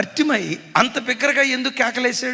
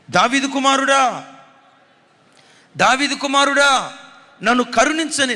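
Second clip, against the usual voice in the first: crying out; 5 semitones higher, 3 dB louder than usual. Retold or imitated. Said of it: "బిగ్గరగా కేకలేస్తున్నాడు".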